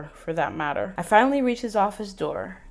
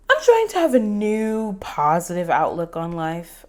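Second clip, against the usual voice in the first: surfer voice; 5 dB louder than usual. Acted. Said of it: "bobbing my head like a surfer".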